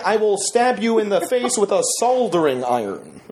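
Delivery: measured actor impression, each phrase set apart; Christopher Walken. Host shows contestants the line, measured impression. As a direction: recite it as a halting celebrity impression. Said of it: "your best Christopher Walken impression".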